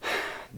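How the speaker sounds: a soft, tired exhale; a sergeant's fed-up sigh; weary sigh. Acted. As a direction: let the air out in exasperation. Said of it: "Henry sighed".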